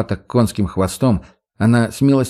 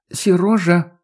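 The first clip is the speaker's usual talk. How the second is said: warning call; 8 semitones higher, slower than usual. A narrator's reading. Маша warns him.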